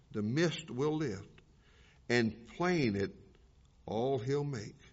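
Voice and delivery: reverent poem read, fading to a whisper at the end; poem recitation. Acted. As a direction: let the verses settle, ending hushed.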